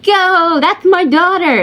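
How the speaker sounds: high mock cheer from the bleachers; a dad at a game cheering his daughter on, mock yell; imitating a cheering dad. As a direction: play the proud dad yelling for his daughter. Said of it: "is screaming on the bleachers going".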